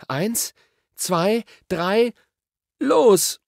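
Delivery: high, building to a loud "los"; counting shout. A narrator's reading. Two children count down before jumping, shouting.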